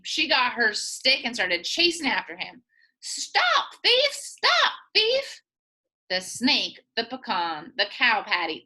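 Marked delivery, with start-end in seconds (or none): 3.0-5.4 high hollered chase cry; hollering. Acted. Granny chasing the thief with her stick, hollering high. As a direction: holler it after the fleeing thief. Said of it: "hollered too".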